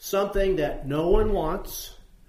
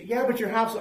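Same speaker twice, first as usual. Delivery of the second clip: higher-pitched, insistent protest; urgent mock warning; 7 semitones higher than usual. Rescuer at the door to householder of burning house, acted urgent warning. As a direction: plead higher, as if cut off mid-warning.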